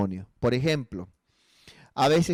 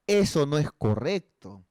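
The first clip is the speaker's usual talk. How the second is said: ordinary delivery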